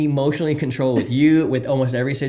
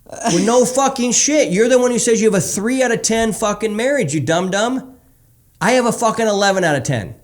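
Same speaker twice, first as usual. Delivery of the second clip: scornful; 9 semitones higher, 4 dB louder than usual. Retold or imitated. Mocking a dumb client.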